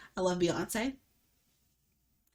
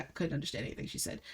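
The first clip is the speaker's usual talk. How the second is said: imitating boyfriend; 6 semitones lower, 12 dB quieter, faster than usual. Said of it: "He's like".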